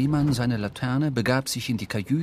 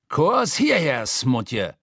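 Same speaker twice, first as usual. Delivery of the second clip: calling the cook; 4 semitones higher, much slower than usual. Acted. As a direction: summon him over. Stubb calls the cook.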